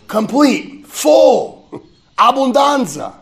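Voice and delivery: slow, soaring cry of joy rising to a laugh; exultant proclamation. Retold or imitated. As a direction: preach it, swelling to a shout. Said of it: "as he says in John fifteen".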